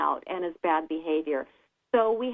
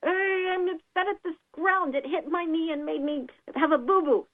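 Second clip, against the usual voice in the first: lightly voiced little kid complaining, a bit higher; hurt little child; 6 semitones higher than usual. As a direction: play a small child whining about a scraped knee.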